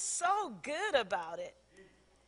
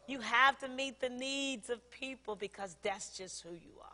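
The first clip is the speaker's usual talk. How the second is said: whispered; 5 dB quieter than usual. Real, not acted. Tender closing exhortation.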